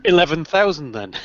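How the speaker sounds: laughing through a retold reply. Retells phone haggling, breaks into laughter.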